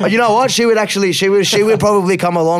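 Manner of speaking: high, loud and eager; suddenly lit up with an idea; excited. Real, not acted. Excited about mum joining podcast.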